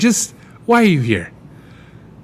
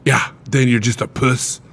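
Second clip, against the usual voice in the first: mock Scottish accent. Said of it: "you kinda slipped into a weird accent there".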